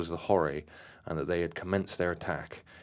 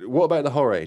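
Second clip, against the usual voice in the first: croaked; 9 semitones higher, 10 dB louder, faster than usual. A narrator's reading. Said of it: "Terry croaked".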